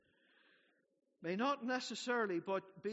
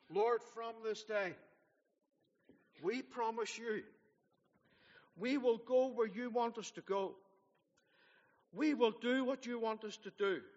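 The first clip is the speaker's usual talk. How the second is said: earnest prayer; 3 semitones higher, 5 dB louder than usual. Retold or imitated. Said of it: "And this was our prayer".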